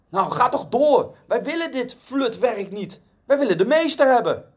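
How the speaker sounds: impatient call from the back, pitched high; narrated shout. A narrator's reading. Heckler at the back urging the auctioneer on, high impatient shout. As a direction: shout it out high as an annoyed bidder. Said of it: "iemand helemaal achterin schreeuwde".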